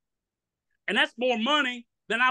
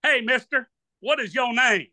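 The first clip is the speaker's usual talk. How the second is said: raised, higher call from the stage; comedian calling out; 4 semitones higher than usual. Retold or imitated. Comedian on stage calling out to the front row. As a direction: call out to the crowd member. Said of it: "He goes".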